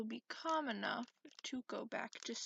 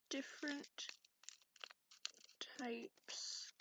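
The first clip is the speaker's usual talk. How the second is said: whisper; slower than usual. Acted. Slowly lists the tea choices.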